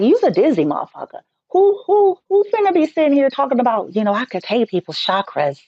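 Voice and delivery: high, fast incredulous mockery of a dizzy boaster; ridiculing a fake healer; mocking incredulity. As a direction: scoff at them, voice jumping up on "who".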